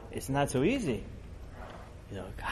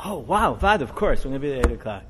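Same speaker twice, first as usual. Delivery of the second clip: eager delight; 6 dB louder than usual. Retold or imitated. Husband eagerly accepts the appointment.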